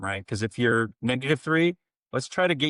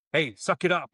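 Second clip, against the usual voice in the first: coach barking; 7 semitones higher than usual. Retold or imitated. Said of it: "knife hands and screaming at her".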